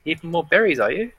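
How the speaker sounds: lilting wood elf woman, opening high and loud; wood elf shopkeeper. Acted. Game master as shopkeeper greeting Aya, welcoming elf woman. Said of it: "you see a wood elf woman".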